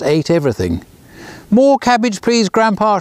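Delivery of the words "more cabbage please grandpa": hammed-up eager kid; eager shout. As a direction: call out for more, delighted. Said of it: "shouted Harry".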